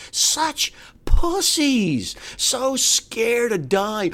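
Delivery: slow, sneering drawl; slow contempt. Real, not acted. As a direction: draw it out with scorn.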